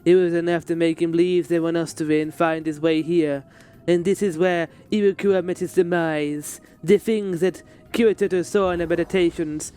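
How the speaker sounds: a hint of French accent in the dialogue read; lightly voiced game character. Streamer reading a game character's lines aloud.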